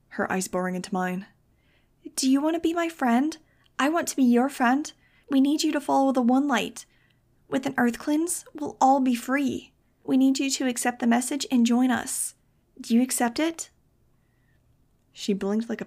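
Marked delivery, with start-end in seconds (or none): 2.2-13.7 high, eerie singsong cult recruiter; sweetly hypnotic, like a possessed doll; possessed cult girl. A narrator's reading. Brainwashed girl pressing Max to join the One Light, eerily sweet.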